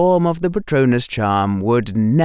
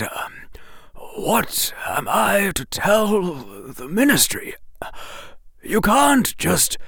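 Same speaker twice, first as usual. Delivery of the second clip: put-on hushed, halting, higher old wizard; flustered whisper; 8 semitones higher, 4 dB quieter than usual. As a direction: stammer in a worried whisper. Dumbledore voiced in audiobook.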